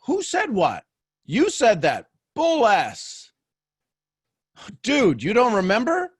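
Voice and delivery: high, loud back-and-forth of disbelief; mock angry argument. Retelling a spat over who said what, mock angry. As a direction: re-enact a heated spat, voice jumping up. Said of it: "there are times when I get mad".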